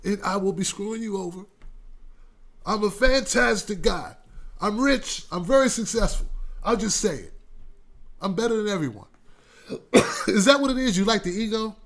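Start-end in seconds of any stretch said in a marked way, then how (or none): 0.0-9.1 lightly voiced bragging tycoon; a hint of a smug rich candidate; boastful rich guy. Mocking how candidates talk, lightly voiced smug boast. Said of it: "guys who talk like this".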